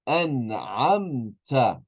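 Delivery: "An'amta" very slow, the n clear before the ayn; full noon. Shown as a demonstration. Teacher models noon before ayn, slow "An'amta" with a full n. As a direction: draw out "An'amta" syllable by syllable, n fully sounded. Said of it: "we pronounce the noon fully".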